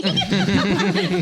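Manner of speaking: loud burst of laughter; hearty laugh. Real, not acted. Joking she wants to be a princess too, laughing heartily. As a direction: laugh out loud at your own joke.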